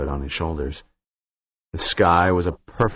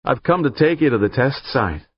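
put-on Highland accent; 5 semitones higher, 3 dB louder than usual. A narrator's reading. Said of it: "said the caller in a decidedly Highland accent".

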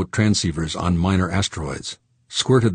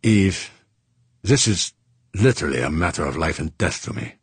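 placating. Acted. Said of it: "he said placatingly".

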